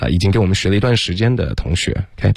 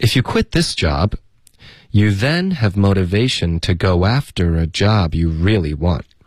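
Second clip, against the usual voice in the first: brief, slight pause after the word job. Showing where to pause at the comma: slight pause after job. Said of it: "大家可以在这个逗号这块稍微停一下。".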